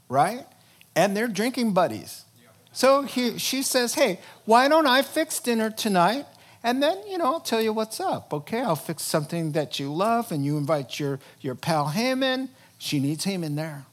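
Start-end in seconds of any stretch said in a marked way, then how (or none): 4.0-12.5 higher, sweet coaxing wife; Esther's coaxing invite. Retold or imitated. Queen coaxing the king to dinner, sweetly higher. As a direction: sweet-talk your husband into dinner.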